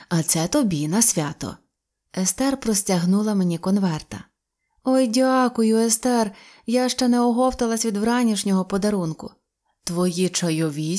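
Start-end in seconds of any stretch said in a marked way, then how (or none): none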